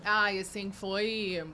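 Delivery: talking with a mouth full of cookie; words round a bite of cookie. Real, not acted. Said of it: "falar de boca cheia agora".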